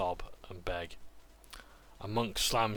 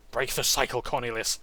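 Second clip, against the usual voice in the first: firm call; 3 semitones higher, 5 dB louder than usual. Acted. Adult voice calls out.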